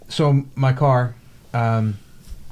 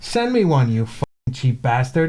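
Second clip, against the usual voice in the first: retold angry demand. Retold angry rant at service agent.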